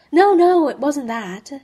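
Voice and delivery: blurted loud and high, then settling; hasty denial. A narrator's reading. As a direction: rush to deny it, voice jumping up. Bert hastily denies, awkward moment.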